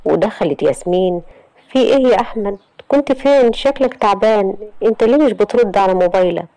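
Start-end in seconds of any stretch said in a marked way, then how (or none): 1.7-6.5 put-on higher, worried young woman's voice; Yasmin's voice. Yasmin confronting Ahmed in a higher, anxious voice. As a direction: sister pressing him with anxious questions.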